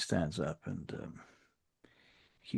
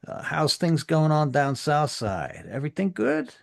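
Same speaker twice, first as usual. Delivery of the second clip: high, loud mock-friendly greeting; menacing gang boss; 9 semitones higher, 7 dB louder than usual. Sex Money voice continues.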